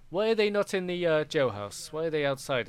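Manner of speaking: put-on an old druid scolding the guards, affronted; elder druid outraged at the guards' lapse; indignant elder druid. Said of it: "And he's like".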